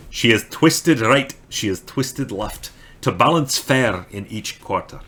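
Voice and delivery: badly faked Scottish recitation; attempted Scottish accent. Shown as a demonstration. Streamer trying again after requester's Auld Scots note, Scottish accent. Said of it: "I don't think I can do a Scottish".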